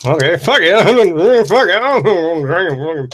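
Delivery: high giggling give-up; laughing. Real, not acted. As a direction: laugh it out, giving up. Laughing resignation.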